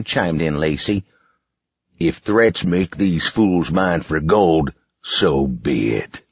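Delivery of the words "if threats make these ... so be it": slow, cold villain voice; slow menacing villain. Acted. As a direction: let the threat sink in slowly. Boss voice.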